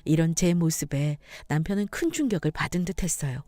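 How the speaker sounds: ordinary delivery, nothing marked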